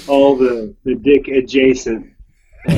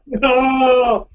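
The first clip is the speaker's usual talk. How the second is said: mock wail; 11 semitones higher than usual. Mock protest at the innuendo.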